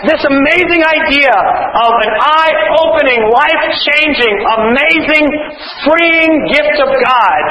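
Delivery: slow, high, savoring each word; exultant slow praise; rapturous praise. Real, not acted. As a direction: lift the words up with awe. Preacher extols God's gift.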